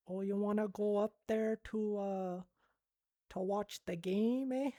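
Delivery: stereotypical Canadian accent, badly done; a hammed-up, lightly done Canadian accent. Shown as a demonstration. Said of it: "do a Canadian accent".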